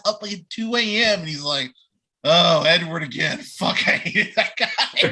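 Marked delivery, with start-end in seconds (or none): 2.2-5.1 laughing, half-whispered grumble. Retold or imitated. Voicing tired Charlie.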